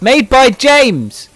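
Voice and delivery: high, loud and drawn out; mock proclamation. Co-host mocking the who-made-it answer, loud proclamation. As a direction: belt out each word slowly. Mocks the circular description.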